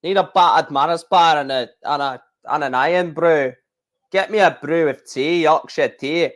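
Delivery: embarrassing attempt at a Scottish accent; a half-hearted mock Scottish accent; bad Scottish accent. Streamer jokingly orders Scottish food in a weak Scottish accent. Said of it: "that is an embarrassing Scottish accent".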